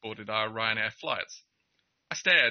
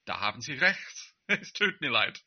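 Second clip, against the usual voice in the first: polite mocking apology. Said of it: "laughing slightly, politely yet mockingly".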